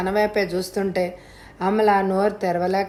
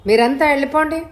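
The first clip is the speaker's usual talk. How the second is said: wild outburst; 4 semitones higher than usual. Acted. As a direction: shout them out like a girl gone mad. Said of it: "అంది అమల పిచ్చిగా చూస్తూ".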